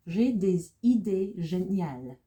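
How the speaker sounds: slow model reading. Shown as a demonstration. Teacher going back over the example sentence, slow model reading. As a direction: say the French sentence slowly and firmly.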